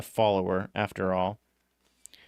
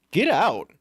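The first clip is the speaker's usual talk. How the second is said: curt order, pitched up and louder; 8 semitones higher, 5 dB louder than usual. Acted. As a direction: throw her out. Driver ordering her out.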